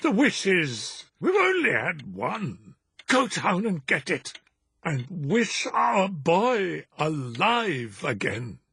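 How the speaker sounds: put-on high, urgent old wife's voice; an old mother clutching at hope; frantic old woman. A narrator's reading. Wife urgently questioning husband, high frantic old woman.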